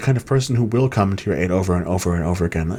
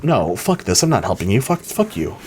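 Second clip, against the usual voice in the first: fed-up outburst, last curse pitched up; angry breaking point. Acted. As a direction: snap at the friend, done with it. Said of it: "I'm gonna play it like that".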